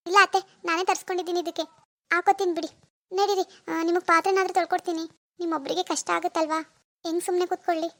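mildly feigned plaintive dutifulness; lightly put-on self-sacrifice; acting pitiful. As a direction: make a show of offering help while hurt. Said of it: "ಹೆಂಗಿದೆ ನನ್ನ acting".

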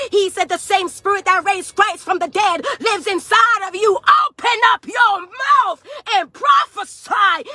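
driving pulpit exhortation; fervent sermon delivery; preaching. Real, not acted. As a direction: preach it in rolling, emphatic phrases. Preaches at full force.

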